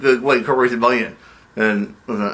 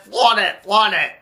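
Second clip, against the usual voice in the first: gleeful; 6 semitones higher, slower than usual. Acted. Gloating over the Rolls Royce.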